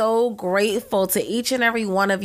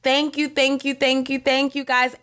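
grateful thanks; 4 semitones higher than usual. Real, not acted. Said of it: "I'm so grateful".

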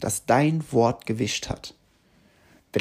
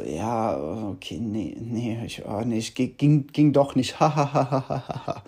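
mock excuse laughed off; 2 semitones lower than usual. Partner making an excuse, hams it up with forced laughter. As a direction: cover a broken promise with a fake laugh. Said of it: "wie das immer so überspielt wird mit so einem Humor".

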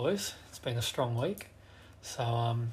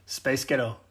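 mock American accent. Shown as a demonstration. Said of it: "I'll use it as an example".

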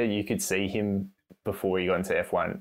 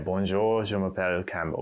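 put-on French accent. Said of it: "you did the accent and everything".

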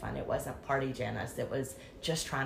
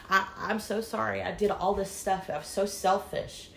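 higher, tearful apology; remorseful pleading; 5 semitones higher than usual. Retold or imitated. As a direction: apologise with a desperate edge. Apology in the plea.

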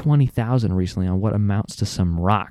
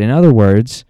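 agitated; 4 dB louder than usual. Real, not acted. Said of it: "I'm getting so agitated".

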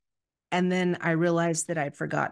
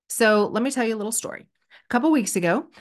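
normal talking voice

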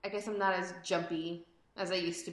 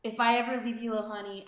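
creepy menacing promise. Acted. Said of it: "that little Walking Dead moment".

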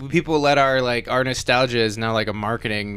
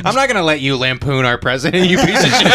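mock indignant Johnny Depp; 3 semitones higher, 5 dB louder than usual. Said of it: "I'm like".

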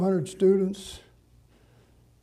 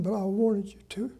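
whispered then higher, softer apology; hushed, heartfelt regret; tender whisper; 5 semitones higher, 5 dB quieter than usual. Retold or imitated. Pastor apologizing to the widow on the phone, soft and sorry.

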